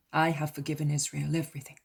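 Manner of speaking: fast line with weight on Israel everything; last words I have forgiven Israel everything pressed home; stressing the last words. A narrator's reading. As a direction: lean on forgiven Israel everything, hurried but firm. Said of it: "concludes Jesus, stressing the last words".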